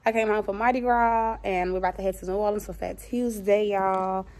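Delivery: talking around a retainer; slightly lisped retainer speech; wearing a retainer. Real, not acted. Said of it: "I do have my retainer in, so I'm talking funny".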